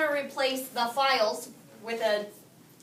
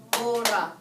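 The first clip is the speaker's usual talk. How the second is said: "Borra" as BOR-ra; stress on first syllable; 3 semitones lower than usual. Shown as a demonstration. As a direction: repeat "Borra" leaning on BOR. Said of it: "second to last syllable".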